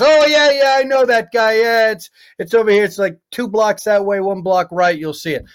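high, loud eager helper voice; bartender voice. Retold or imitated. Bartender eagerly giving the drunk tourist directions, high and loud.

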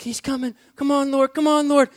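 high and loud, rising anticipation; eager pleading. Retold or imitated. Man waiting for prayer, eagerly calling out. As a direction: call out as he draws near. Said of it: "I'm like".

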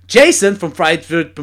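loud, slow, cocky proclamation; arrogant. Retold or imitated. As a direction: imitate a boastful guest proclaiming it as fact. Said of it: "begon op zo'n arrogante manier te zeggen". (arrogante, luide aankondiging)

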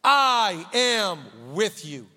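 very slow, steady promise; slow reassurance. Acted. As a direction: lean on each word gently. Angel's reassurance.

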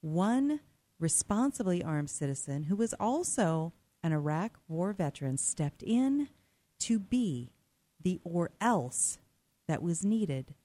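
measured, emphatic scripted story read; dramatic news intro. A narrator's reading. Host introduces a story of an armed veteran's rescue, dramatic read. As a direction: set up the story with weighty pauses.

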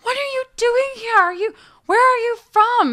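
imitated little old lady, very high and loud; high-pitched old Japanese lady impression. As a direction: quiz the stranger in a high, amazed little voice. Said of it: "she has this high-pitched little voice".

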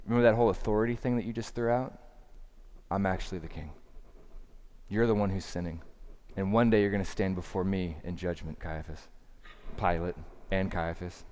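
low, soft and measured; calm, quiet. Acted. Jesus answering Pilate about who holds authority, calm and quiet. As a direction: state it quietly, with settled authority. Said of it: "He says it calmly, he says it quietly".

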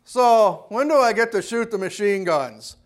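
mock a cocky recruit's question; smart-alecky, condescending. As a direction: imitate a wise guy talking down to his sergeant. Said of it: "very kind of smart alecky tone and condescending tone".

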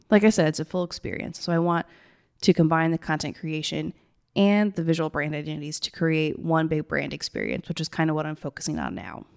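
gravelly, tired morning voice; rough gravelly voice. Real, not acted. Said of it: "so gravelly and I don't know why".

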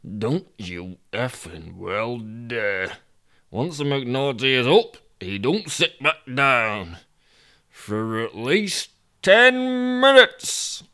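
exasperated speaker. Acted. The speaker telling off his own legs, exasperated.

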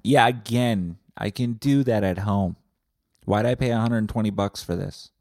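loud, pushy mock grievance; heckling complainer. Retreat customer complains about the price, loud indignant mock rant. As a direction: protest loudly over the teacher.

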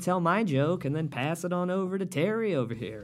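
lightly sing-song, mock-friendly voice; mock improv comic. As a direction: parody a comic passing the turn along. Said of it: "have the comics go".

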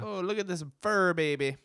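a hammed-up Italian-ish accent cooing at a baby; mock Italian accent. Friend cooing over a hairy baby in a mock Italian accent. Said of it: "What was that accent?".

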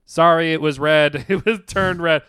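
lightly imitated court reader; reading statement aloud. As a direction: recite the confession slowly, then lift it. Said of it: "the woman literally read my statement".

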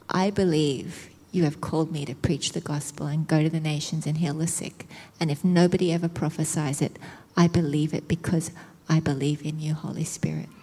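low, subdued confession of faith; earnest declaration. Retold or imitated. Preacher retelling her bedside prayer, earnest declaration. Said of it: "I said out loud".

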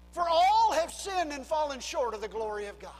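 emphatic pulpit declaration hitting all; proclaimed verse. Shown as a demonstration. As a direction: preach the verse out loud to the room. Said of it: "scripture proclaimed".

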